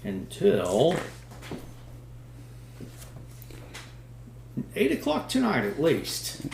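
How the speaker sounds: radio station announcer sign-off; lightly voiced radio DJ; newscaster voice. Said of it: "Let's put on my newscaster voice here".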